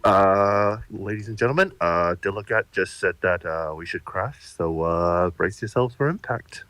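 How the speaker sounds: casual, halting cabin announcement; mock calm pilot; airline pilot announcement. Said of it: "the pilot is like".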